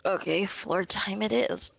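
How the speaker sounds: sleepy and slow; tired. Real, not acted. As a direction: drag it out, worn out. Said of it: "I'm fucking tired".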